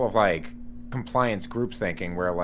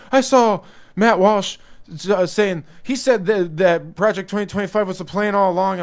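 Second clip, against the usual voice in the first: panicky friend impression; 9 semitones higher, 6 dB louder than usual.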